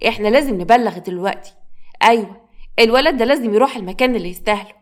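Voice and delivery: bitter, contemptuous stepmother; scornful accusation. Acted. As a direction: build a case against the boy. Stepmother accuses boy to father.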